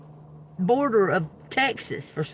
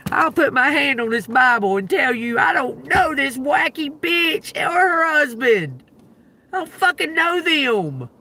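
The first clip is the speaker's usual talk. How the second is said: indignant; 6 semitones higher than usual. Real, not acted. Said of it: "swearing on the Bible".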